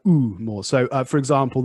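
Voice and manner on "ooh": a long rounded "ooh" the Canadian way. Shown as a demonstration. Teacher demos the Canadian vowel. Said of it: "the Canadians would say something like".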